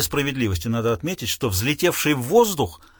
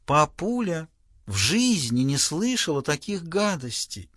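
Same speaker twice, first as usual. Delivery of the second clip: prim daughter; 2 semitones higher, slower than usual. Acted.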